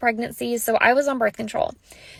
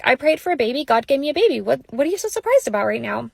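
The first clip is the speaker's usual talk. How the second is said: matter of fact. Retold or imitated. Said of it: "so matter of fact".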